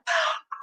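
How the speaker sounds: big acted gasp before yelling; worked-up intake of breath; sharp gasp. Retold screaming at him, sharp breath.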